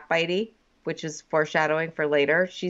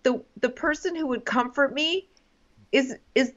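higher, overwrought movie heroine; mock breakup speech; 6 semitones higher than usual. Woman in movie breakup scene, mock distraught. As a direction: plead in a higher, halting voice. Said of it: "the woman says something like".

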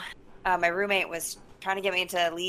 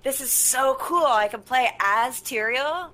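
drawn-out gushing, higher pitched; retold excitement; 5 semitones higher, much slower than usual. Player recalling first seeing the game, excited. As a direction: gush slowly over a cool new discovery.

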